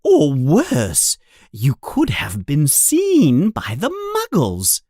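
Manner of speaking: screaming mother. Acted. Furious mother threatening her sons with their father, loud. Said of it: "she screams".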